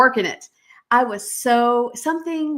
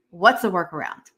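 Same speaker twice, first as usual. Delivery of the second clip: firm, fierce mom challenging the experts; defiant mom demanding a workaround; Warrior Mom voice; 3 semitones lower than usual. Shown as a demonstration. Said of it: "I want you to hear my Warrior Mom voice".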